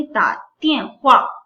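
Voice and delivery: ta tian hua stretched out slowly; slow careful word model; slow Chinese demo. Shown as a demonstration. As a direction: repeat it slowly for the class. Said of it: "Chinese में क्या कहेंगे".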